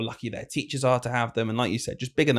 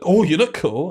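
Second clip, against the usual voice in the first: higher, lightly voiced admiring kids; imitating impressed kids; 5 semitones higher, 4 dB louder than usual. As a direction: mimic children's impressed cooing. Kids admiring the teacher's sunglasses.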